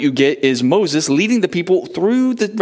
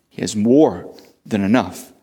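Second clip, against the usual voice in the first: reassuring answer; 6 semitones lower than usual. Acted. Call and answer refrain.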